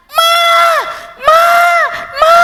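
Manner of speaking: loud wailing calls; child calling mum. Acted. Crying child calling his mother from the yard, loud wail. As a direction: bawl for mama like a crying five-year-old. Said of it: "dia panggil-panggil mamanya".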